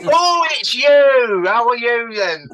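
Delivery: loud, high, drawn-out northern mum; big hammed-up northern phone voice; northern accent. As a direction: imitate a northern mum greeting a caller loudly. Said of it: "You know, real northern accent".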